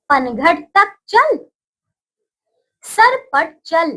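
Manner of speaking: slow, syllable by syllable for repeating; slow read-along. Shown as a demonstration. Teacher reads slowly for children to repeat. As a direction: read each phrase slowly so children can follow. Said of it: "चलिए बच्चों, बोलिए मेरे साथ।".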